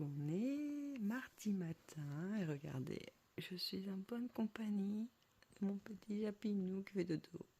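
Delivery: hushed whisper beside a sleeping cat; whispering over a crib. Real, not acted. Chat qui dort à côté. (chuchoté pour ne pas réveiller le chat)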